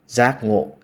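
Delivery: careful Vietnamese pronunciation of giác ngộ, with its tones; Vietnamese word. Shown as a demonstration. Explaining a native word to viewers, slow Vietnamese pronunciation. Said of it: "in my native language, Vietnamese, is".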